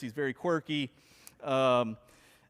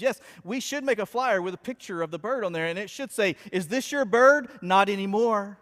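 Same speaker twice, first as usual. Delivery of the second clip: Sheldon's deadpan; 5 semitones higher, 5 dB louder than usual. Retold or imitated. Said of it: "And Sheldon says".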